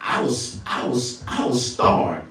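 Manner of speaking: unvoiced startled words; hushed. Real, not acted. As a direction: breathe it out stunned. Speaker startled.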